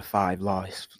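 put-on accidental touch of a British accent; drawn-out word with a hint of British. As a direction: slip lightly into British English. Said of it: "I did a British accent".

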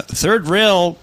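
slow, measured voiceover read. Acted. Host reading out a viewer's name, slow voiceover voice. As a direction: announce it slowly, pausing between phrases. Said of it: "I will read in a voiceover voice".

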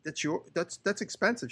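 high, eager mock pitch; mock know-it-all. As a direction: ham up the clueless customer explaining tools. Mocking the customer's sales pitch.

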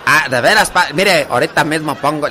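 put-on eager comadre with a Tarimoro accent; imitated Tarimoro country speech; lightly put-on Tarimoro accent. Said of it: "la de Tarimoro se habla así".

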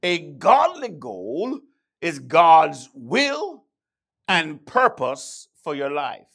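slow and weighty, each word leaned on; slow, firm preacher emphasis. Shown as a demonstration. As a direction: drag it out so every word lands. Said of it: "Let me slow it down".

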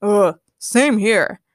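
slow, awkward timid villain; hammed-up sheepish agreement. A narrator's reading. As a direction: back out reluctantly, drawn out. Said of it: "Pete said timidly".

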